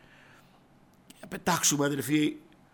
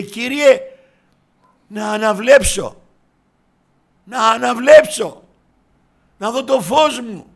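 loud, high and slow beg; the blind man begging the Lord for his sight; pleading cry; 5 semitones higher, 9 dB louder, slower than usual. Acted. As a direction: stretch out the plea to see.

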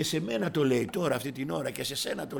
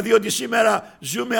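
ordinary delivery

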